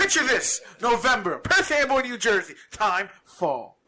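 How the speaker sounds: high, grand scene-setting voice; dramatic storyteller. Pretend. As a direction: set the scene like a movie trailer. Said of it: "set the stage".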